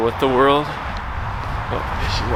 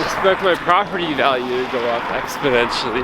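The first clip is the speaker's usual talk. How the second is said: numb cold lips, careful retake; frozen lips. Real, not acted. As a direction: push the words out through frozen lips. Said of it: "my lips are frozen".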